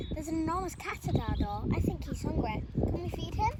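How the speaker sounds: put-on small boy calling to his mum; little boy calling. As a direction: call out like an excited small boy. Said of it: "called the little boy".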